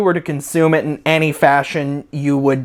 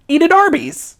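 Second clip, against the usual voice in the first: mock slogan shout; 13 semitones higher than usual.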